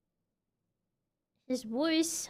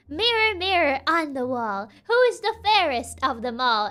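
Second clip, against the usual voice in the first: witch voice. Acted. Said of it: "witch voice is so good".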